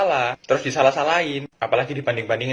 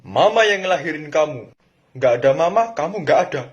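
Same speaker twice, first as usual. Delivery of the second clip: offended mom; 4 semitones higher, 6 dB louder than usual. Acted. Mom scolding child.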